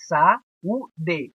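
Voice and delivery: "saúde" slowly as sa, ú, de; spaced-out "saúde" with a and u apart; split into syllables. Shown as a demonstration. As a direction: pause between the syllables of "saúde". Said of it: "o A e o U lado a lado".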